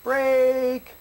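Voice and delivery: high, punchy release call; crisp trick command; sharp command. Real, not acted. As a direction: snap the release word. Command to the dog.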